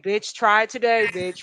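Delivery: slow, sassy mock threat; drawn-out sassy warning; sassy attitude. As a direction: give a dismissive don't-try-me look in the voice. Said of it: "that face like".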